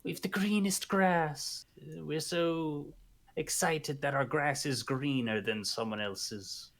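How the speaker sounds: smug, proud mocking voice; lightly voiced bragging locals; hammed-up town pride; mock boastful townsfolk. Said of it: "Did they think they were being like".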